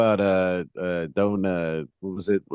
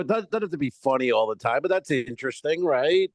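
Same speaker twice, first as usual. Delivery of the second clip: mild pleading; 5 semitones higher than usual. Retold or imitated. Comic arguing with audience, mild pleading. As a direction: plead your case lightly, pitched up. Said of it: "I, I go".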